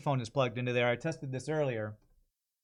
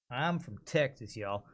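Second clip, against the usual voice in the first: Texas drawl; 3 semitones lower, 5 dB quieter than usual. Shown as a demonstration. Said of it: "like a Texas".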